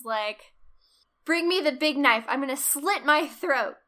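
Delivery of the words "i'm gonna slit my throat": mock melodramatic. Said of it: "he says the iconic words".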